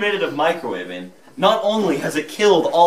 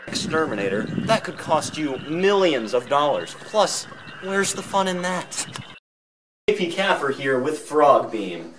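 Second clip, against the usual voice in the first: infomercial; 2 semitones lower than usual. Acted. Parody infomercial pitch.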